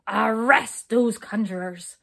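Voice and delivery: loud, slow furious command; awful kingly voice. A narrator's reading. King ordering soldiers to arrest conjurers, awful loud voice. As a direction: thunder out the order. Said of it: "said the king in an awful voice".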